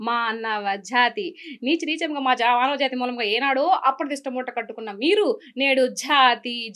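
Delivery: fiery theatrical declamation, swelling to a cry; film dialogue delivery. Pretend. Actress performs a famous film speech on request, theatrical declamation. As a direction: hurl the mythological challenge with full pride. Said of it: "ఒక్కటి వదలండి".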